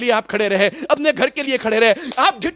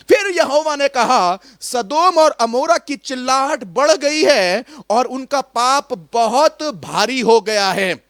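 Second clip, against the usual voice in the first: slow, measured Bible reading; scripture reading; slower than usual. Acted. Preacher reading Genesis verse to congregation, slow and solemn. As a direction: read the verse out with weight, unhurried.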